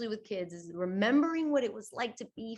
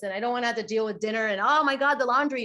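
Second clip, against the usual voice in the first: mock overwhelmed adult; 3 semitones higher, 6 dB louder, faster than usual. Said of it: "as I would Rena, the adult".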